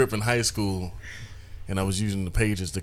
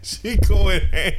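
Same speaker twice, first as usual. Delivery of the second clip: teasing drawl; 9 semitones higher, 7 dB louder, much slower than usual. Real, not acted. Teasing about her remark.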